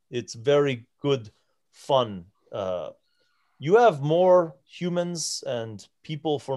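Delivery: a hint of a giant hunting for foreign words; broken Common. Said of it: "in broken common".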